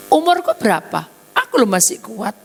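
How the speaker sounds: put-on loud, high scoff from a stubborn old man; sneering refusal at full voice; defiant loud retort. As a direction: brush off the angel, loud and proud.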